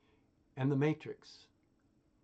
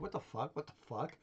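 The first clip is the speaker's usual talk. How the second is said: muted disbelief building to louder blah-blah rant; mock F-bomb rage; 2 semitones higher, 5 dB louder than usual. Imagining someone losing it over a stray thought, mock rage. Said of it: "F-bomb rage".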